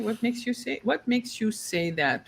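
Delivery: soft, measured question; even tone. Shown as a demonstration. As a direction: keep it quiet and unruffled. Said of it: "But again, even tone".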